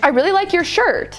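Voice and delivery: friendly pitch rise at the end of shirt. Demonstrating a friendly compliment: friendly rise on shirt. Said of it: "the intonation's going up and it's friendly".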